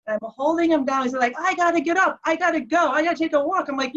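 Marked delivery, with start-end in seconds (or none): 1.4-3.7 high, urgent retold pleading; agitated insistence. Husband held down by wife wanting up, agitated insistence. Restrained husband wants to leave.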